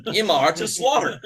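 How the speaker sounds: "Imar" said with a small laugh; laughing demo. Shown as a demonstration. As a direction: laugh through the word "Imar". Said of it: "or a lamb".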